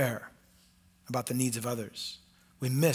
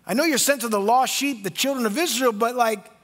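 higher, louder pleading; pleading mother; 8 semitones higher, 7 dB louder than usual. Acted. Mother pressing Jesus, higher louder pleading. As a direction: press her case urgently.

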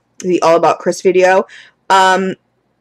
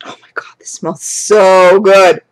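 hushed whisper of delight at a candle; awed whisper; 3 dB louder, slower than usual. Real, not acted. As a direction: whisper it, slow and breathless over the scent. Sniffing the candle, awestruck.

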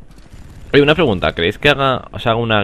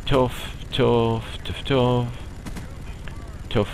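chof suave e imitado, un poco más agudo; imitación de un chof; 3 semitones higher, 5 dB quieter, much slower than usual. Retold or imitated. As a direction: imita un sonido sordo, chof, repetido con pausas. Imita el sonido del juego. (imitando un chof, en español)

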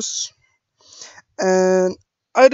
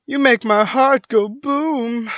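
loud, slow, higher attempt at Australian; slightly Australian, louder and drawn out; Australian accent attempt; 5 semitones higher, 7 dB louder than usual. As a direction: try a rough Australian accent. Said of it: "I can't do an Australian voice".

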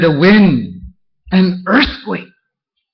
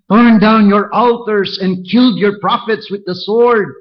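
fervent Elijah; 6 semitones higher than usual. Acted. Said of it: "Exactly the same".

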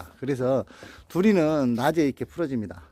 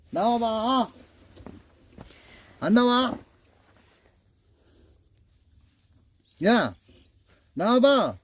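calling out; 8 semitones higher, slower than usual. Real, not acted. Calling dog out again.

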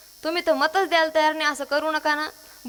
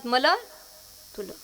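Marathwada "मलं तुलं" with final nasal-marked vowel; Marathwada dialect; 3 semitones lower than usual. Shown as a demonstration. Kirtankar shows women how Marathwada says mine and yours, Marathwada dialect. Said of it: "ते म्हणतात".

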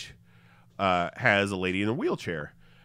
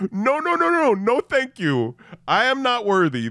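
high, loud panicked no no no; backing off fast; flustered protest; 12 semitones higher, 5 dB louder than usual. Retold or imitated. Caught on stage, pleading not to be picked: high flustered. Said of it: "I'm like".

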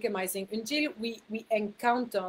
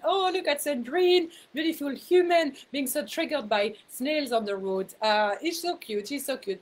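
compassionate self-talk; 4 semitones higher than usual. Retold or imitated. Laughing at herself over snails on the road, fond cooing. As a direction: coo over yourself like a sweet child. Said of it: "I laugh at myself with so much compassion".

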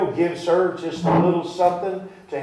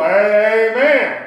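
mock startled response; 6 semitones higher, 7 dB louder than usual. Mock reaction of startled girl.

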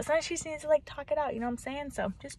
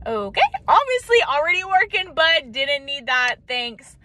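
sarcastic retort; 2 semitones higher, 4 dB louder than usual. Retold or imitated. Girlfriend answering a dismissive boyfriend, sarcastic retort. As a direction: fire back at useless advice, then tail off into a dry thanks.

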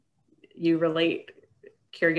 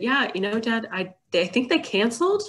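acted reassuring caregiver; 6 semitones higher, faster than usual. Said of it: "you might have said".

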